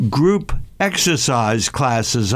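group said slowly, leaning hard on the word; slow and deliberate, every weight on group; stress on group. Real, not acted. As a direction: stretch out group exercise classes, hitting group. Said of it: "I emphasize the word group".

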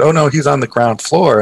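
plain retold statement, falling at the end; casual informative reply; receptionist's matter-of-fact answer. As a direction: tell him simply where his uncle is. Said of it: "my uncle, I said".

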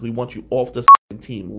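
loud, furious demand; retold bully yelling at a kid; angry shout. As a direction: yell him off the team. Bully telling him to leave.

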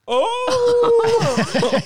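very high, loud drawn-out "oh"; exaggerated wail. Acting out a brush with cocaine, exaggerated wail. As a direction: let out a long, hammed-up high wail.

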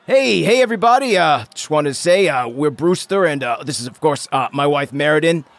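hearty father of the groom; cheery dad speech. Acted. GM plays Brewster giving speech.

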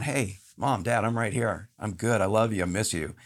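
son's gentle message. Retold or imitated. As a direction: gently tell your parents you're fine. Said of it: "it's like Sage going".

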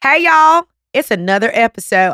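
playful Texas twang, high and loud on the greeting; Texas accent. Pretend. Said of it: "why I'm doing that accent".

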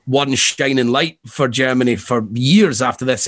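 slips into a German accent on shining; light German accent, unplanned. Real, not acted. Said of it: "say shining again in a German accent".

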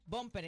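"bumper" said as Spanish, stressed on the O; Spanish pronunciation. Shown as a demonstration. Host shows how the dictionary has it, "bumper" in Spanish pronunciation. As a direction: say "bumper" as bómper, accent on the first syllable. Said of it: "bumper con acento en la O".

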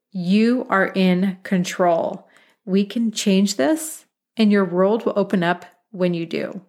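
slow, measured and sincere; calm reassurance. Real, not acted. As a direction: ease them into it slowly and firmly. Coach reassures listeners after deep breath.

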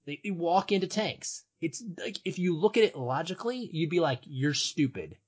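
rising passion, pitch climbing; escalating comedy rant. Acted. Passionate build about uprisings.

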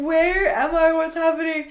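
high-pitched, baffled waking questions; mock bewilderment. Storyteller relives waking in a strange guest room, bewildered. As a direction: act out waking up totally lost.

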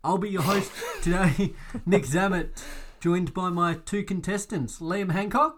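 lightly hammed quiz host intro; game show voice. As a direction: keep the TV host shine going. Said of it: "I better put on my game show voice".

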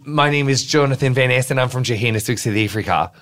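a wobbly South African accent drifting Australian; South African accent attempt. Shown as a demonstration. Guest shows off a South African line to cohost. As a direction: try a South African accent, not quite there. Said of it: "I can do a really good South African sentence".

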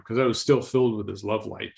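ordinary talk, nothing marked

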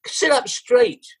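high, slow mock shout; retold producer's shout. Producer to rider weighed down by helmet cam, mock shout. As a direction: imitate a shouted order, pitched right up without full volume. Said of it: "producer shouted".

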